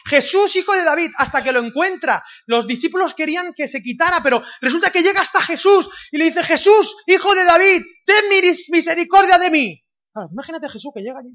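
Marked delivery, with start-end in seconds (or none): 0.1-1.1 high, very loud cry for mercy; shouted plea. Acted. Blind beggar calling out to Jesus for mercy, shouting. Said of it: "y gritando". 1.2-6.4 high, loud preacher's emphasis; full-force preaching. Real, not acted. Preacher telling the church about the blind man, full force. 6.4-9.8 high, very loud cry for mercy; shouted plea. Acted. Blind beggar calling out to Jesus for mercy, shouting. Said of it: "y gritando".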